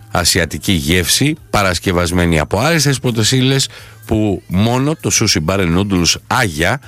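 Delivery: upbeat radio sponsor read; live ad read. Acted. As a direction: sell the sushi bar to listeners. Host reads live sponsor ad. (διαφημιστικό σποτ στον αέρα)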